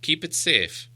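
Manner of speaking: the wizard slowing on the key; sly wizard. Acted. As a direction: produce the key with a flourish. Gandalf hands the key.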